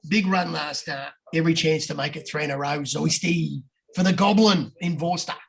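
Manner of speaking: lightly put-on Aussie accent; good Aussie voice. Reading Ando's tips to the boys, Aussie voice. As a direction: read the tips like an Aussie punter. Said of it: "do it in a good Aussie voice".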